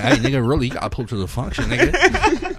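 put-on a light West Coast accent, buddy inviting; mild West Coast accent calling a friend out. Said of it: "I love the West Coast accent you had right there".

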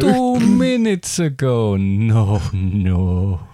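vampire voice breaking into laughter; slow vampire, cracking up. Acted. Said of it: "Do your vampire voice".

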